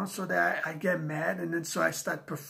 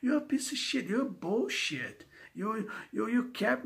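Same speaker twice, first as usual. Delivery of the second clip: angry outburst; 6 semitones higher than usual. Real, not acted. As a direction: spit the insult out at them. Angry rant at police.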